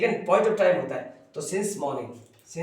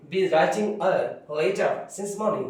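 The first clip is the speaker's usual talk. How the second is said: slow dictation; much slower than usual. Shown as a demonstration. Teacher dictating the sentence.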